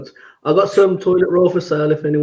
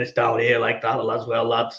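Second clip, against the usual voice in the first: dropped low, softer manager voice; Cook impression; 4 semitones lower, 6 dB quieter than usual. Co-host shows the manager's tone swings, low end of the impression. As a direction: drop down low, imitating a football manager. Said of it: "I do like the up and down by Cook".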